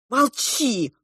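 mild angry snap; a touch of annoyance. A narrator's reading. Girl cutting off her friend, mildly angry. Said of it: "рассердилась я".

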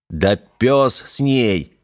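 slow, firm dismissal; decisive. Acted. Черепаныч решает уезжать без девушки, решительно. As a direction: settle it once and for all, slowly. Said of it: "решительно произнёс Черепаныч".

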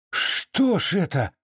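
can't believe what just happened; aghast gasp. A narrator's reading. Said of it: "ахнул кошевой".

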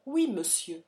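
each word set out cleanly and coldly; crisp and cold. Acted. Daughter answers her father, cold and clearly articulated. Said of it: "articula-t-elle nettement".

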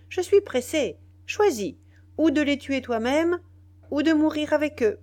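angry ultimatum. A narrator's reading. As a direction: hurl the choice at him in rage. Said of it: "d'un ton d'impatience et de colère".

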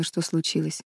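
ordinary delivery

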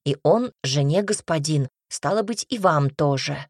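huffy, emphatic lecture; stubborn, offended insistence; sulky. Acted. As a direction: put the mistress in her place, mildly sulking. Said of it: "надулась Марта".

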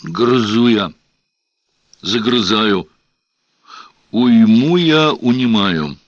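lightly voiced chanting deacon; deacon's bass. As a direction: intone it like a church deacon. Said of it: "густым дьяконским басом".

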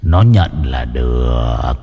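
low, slow, menacing gloat; demon gloat. A narrator's reading. Demon guard gloating over the son's claim, menacing. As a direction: relish the words like a demon.

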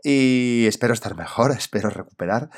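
hoarse, croaky voice from a cold. Real, not acted. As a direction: speak through a lingering cold, hoarse. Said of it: "te pido disculpas por esta voz de ultratumba".

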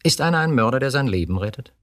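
high, heated question; indignant outburst. Acted. Chief snaps back at his wife, high and heated. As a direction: defend him with fire.

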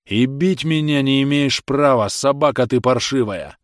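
angry defiance. Acted. Beaten prisoner defies the official. (гневно, с вызовом)

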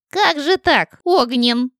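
high, mocking jeer; open mockery. A narrator's reading. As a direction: taunt the dragon openly. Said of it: "Уже открыто насмехалась ведьма". (открытая насмешка)

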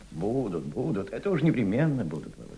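quiet, knowing repeat of будут; wry soft agreement. Acted. Elder quietly answers the young man, amused.

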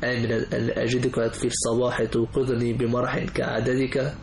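slow measured poetic recital; poem recitation. Acted. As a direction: recite each line with pauses.

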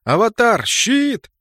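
high, loud warning shout; urgent shout. A narrator's reading. Leader sensing danger shouts to the mage, urgent shout. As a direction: shout the order before the blow lands. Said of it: "почуял неладное и крикнул".

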